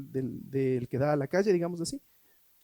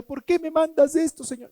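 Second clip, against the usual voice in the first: higher, louder whining plea to God; mock plaintive complaint; 11 semitones higher, 6 dB louder than usual. Preacher voicing a believer complaining to God.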